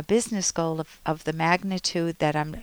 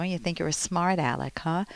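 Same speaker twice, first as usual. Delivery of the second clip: sarcastic; 5 dB quieter than usual. Retold or imitated. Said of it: "continue with the sarcasm".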